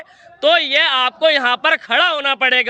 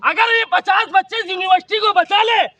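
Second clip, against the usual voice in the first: higher-pitched, impassioned challenge; heated protest; 4 semitones higher than usual. Real, not acted. Student challenging an official over saving the university, heated. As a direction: argue it out, voice raised in pitch.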